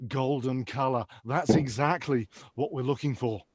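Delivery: lightly voiced TV chef praise; Gordon Ramsay. Chef judging Darren's pee like a dish, mock praise. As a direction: appraise it like a plated dish, dropping at the end. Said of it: "visions of him telling me what to do".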